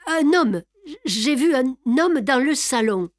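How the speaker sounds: essoufflée, plus haut et plus fort, bégayante; elle arrive en courant, hors d'haleine; à bout de souffle. Acted. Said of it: "Suffoquée, à bout de souffle". (la domestique annonce l'intrus à Lupin, essoufflée et bégayante)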